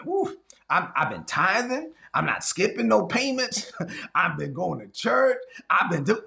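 hums and preens, lightly voiced smug churchgoer; smug self-talk. Preacher mocks a self-righteous believer at the mirror, smug. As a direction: pat yourself on the back, hum dun dun.

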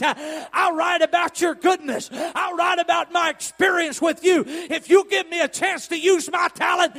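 high, loud revival preacher; impassioned pulpit shout, stretched out at the close; full-force preaching. Acted. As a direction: shout it out in driving, rhythmic declarations.

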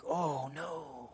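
very soft, drawn-out mock dismay; dismayed reaction. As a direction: let it sink out quietly, slowly. Dismayed reaction to grandmother's complaint.

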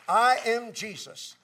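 loud, slow, emphatic declaration; proclaimed divine answer. Retold or imitated. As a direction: proclaim it forcefully, leaning on each word. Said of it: "he got an answer back".

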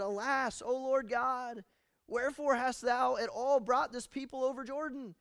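high, loud anguished cry to God; distraught plea. Acted. Preacher voicing Joshua's despairing cry to God. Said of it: "He's distraught".

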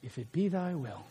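sudden soft, deflated afterthought; deflated tag-on. Shown as a demonstration. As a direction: let the fire drain out and mumble "If it be thy will". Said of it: "your voice gets, like, normal again".

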